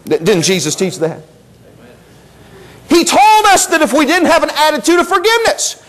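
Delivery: ordinary delivery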